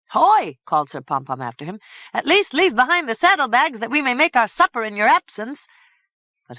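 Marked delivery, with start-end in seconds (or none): 0.1-0.6 loud high call after a rider. Acted. Calling after departing rider. 2.1-5.7 raised, higher pleading call. Acted. Sir Pompom calls after Philemon.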